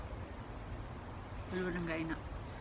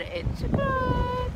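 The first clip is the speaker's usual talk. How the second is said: high squeal; 4 dB louder, much slower than usual. Pretend. Sign-off stretched up high.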